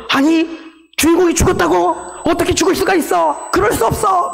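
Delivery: high soap-opera outcry; hammed-up high-pitched shock; melodramatic yelling. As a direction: cry out in disbelief like a drama actor. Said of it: "막 소리를 지르면서".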